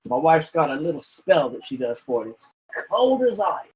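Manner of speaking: innkeeper. Acted. Innkeeper NPC voiced by GM.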